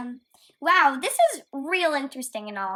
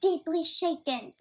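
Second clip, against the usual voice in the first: mocking echo; slower than usual. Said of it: "the funniest clown I've ever heard".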